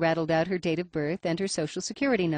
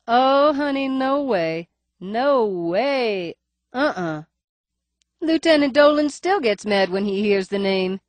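high nasal voice, faint lisp; wary clerk, higher and nasal; 5 semitones higher, 7 dB louder, slower than usual. A narrator's reading. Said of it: "Her voice is higher ... nasal cast".

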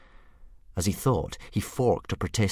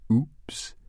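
evil giggle; 5 semitones higher than usual. A narrator's reading. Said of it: "giggled the dragon evilly".

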